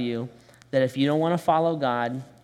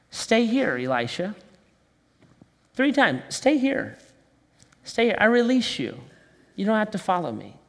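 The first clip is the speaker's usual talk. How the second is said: Elijah's release; 4 semitones higher than usual. Retold or imitated. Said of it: "Elijah speaks to Elisha".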